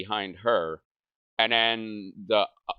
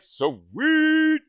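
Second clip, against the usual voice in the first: very high, loud cheer; high, loud cheer of relief; relieved cheer; 8 dB louder than usual. Retold or imitated. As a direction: celebrate escaping the diaper. Relieved, off the hook.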